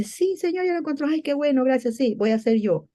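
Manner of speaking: high, eager mock reply, quickly brightening; excited yes. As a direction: jump at the offer, voice pitched high.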